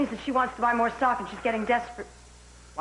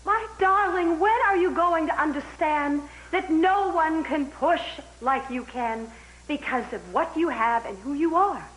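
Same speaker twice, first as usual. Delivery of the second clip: tearful plea; 3 semitones higher than usual. Acted. Pleading with partner about family.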